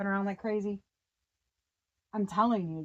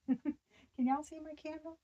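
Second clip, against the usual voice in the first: laughing; 8 semitones higher, 4 dB quieter than usual. Real, not acted. Asking viewers about her camera.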